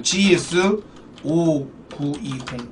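지에스 오구이공 drawn out low and slow; slow hyped call. Shown as a demonstration. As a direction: drag out 오구이공 like a big reveal. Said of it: "메이저 좀 줄게요".

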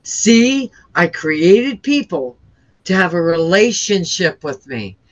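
lightly voiced disappointed God. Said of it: "and he goes".

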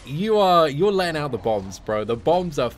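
laughing. Real, not acted. Laughing, joking with chat.

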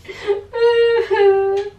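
badly faked boo-hoo; pretend crying. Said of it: "I'll go cry if you leave me".

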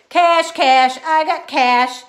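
high, loud, thrilled hollering. A narrator's reading. Girl showing off her tooth fairy cash, thrilled holler. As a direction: yell it out like the best news ever. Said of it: "I hollered real thrilled".

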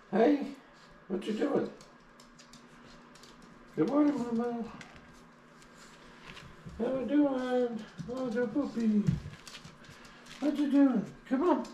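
very high cooing pet voice; squeaky, high pet-talk. Real, not acted. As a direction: coo up high at the little dog. Cooing at the puppy.

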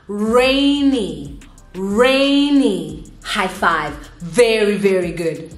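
put-on animated, drawn-out kids' lesson voice; teacher to young children. Shown as a demonstration. Teacher leading a weather game for children, animated. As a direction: sing out the words playfully to little learners.

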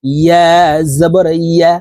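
ইয়া slowly for learners to repeat, clear y glide; careful model of ইয়া ending on a firm y; correct mid-tongue ইয়া. Shown as a demonstration. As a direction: lead the repeat of ইয়া with a pause after it. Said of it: "আমার সঙ্গে বলার জন্য".

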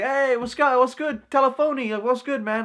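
high, over-friendly greeting; trying to be friendly. Retold or imitated. Greeting the boy who wants a fight, friendly act. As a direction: pitch it up into an eager, placating hello. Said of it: "trying to be friendly".

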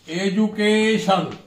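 education slow and drawn out; teacher's slow, deliberate education; syllable stress demo. Shown as a demonstration. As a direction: stretch each syllable of education. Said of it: "stress is stress on last syllable".

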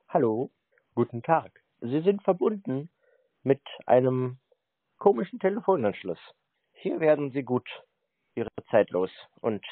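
lightly voiced announcement, slowed down at the start; mock phone announcement. Prankster mimicking a phone recording for the scammer, mock formal. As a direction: play a recorded line that greets the caller. Parodies an answering machine announcement.

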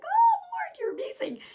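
high, loud Oh Lord falling into a whisper; awed exclamation. Retold or imitated. Preacher praising the Lord in amazement, then whispering. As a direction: gasp it out in wonder, then hush. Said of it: "I was like".

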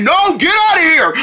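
shrill get-out shout; high shooing yell. Acted. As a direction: shoo them off loudly. Deerling shoos bug away.

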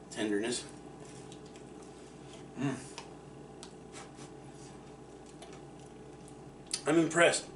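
eating between words; chewing while talking. Real, not acted. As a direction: mouth partly full of food. Seen 3: Holds slice, bites at 10.5, mouth working between words.

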